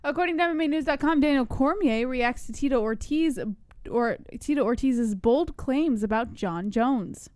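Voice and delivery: measured newsreader delivery; news read. Real, not acted. Co-host reading fight news to listeners, news read. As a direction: read it out like a sports news item. Reads a news story aloud.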